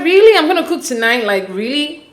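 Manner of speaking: half-joking, half-hurt disbelief; quoting the wife's half-joking dismay. Retold or imitated. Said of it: "saying it in a joking way".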